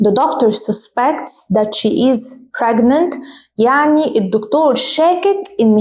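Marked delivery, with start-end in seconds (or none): 0.1-3.2 the doctor susPECTs, slow and clear; slow teacher reading; slow model sentence. Shown as a demonstration. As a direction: dictate it slowly. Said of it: "For example".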